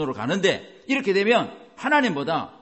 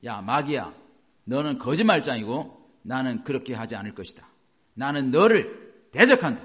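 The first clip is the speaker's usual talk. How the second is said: rebuking the devil; 3 semitones lower, 4 dB louder than usual. Shown as a demonstration. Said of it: "그래서 이렇게 말해야 돼요". (마귀를 꾸짖으며 점점 강하게)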